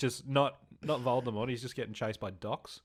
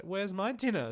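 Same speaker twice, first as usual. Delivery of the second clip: put-on whiny kid; 9 semitones higher than usual. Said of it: "She's like".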